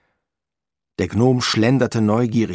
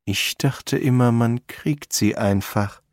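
Ferdinand Frost, musing; 3 semitones higher than usual. Acted. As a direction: muse it evenly, "einfach" drawn out. Frost's line, echoed by gnome.

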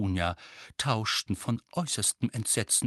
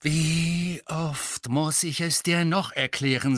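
louder, slow, exasperated; rising anger; 6 semitones higher, 5 dB louder, slower than usual. A narrator's reading. Harry snaps at his uncle, angry. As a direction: let anger swell. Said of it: "mit der Wut schwoll auch seine Stimme an".

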